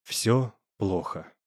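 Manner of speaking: low, soft and slow; flat muffled despair; hollow, muffled voice. A narrator's reading. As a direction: say it dull and heavy. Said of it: "Глухим голосом отозвался он".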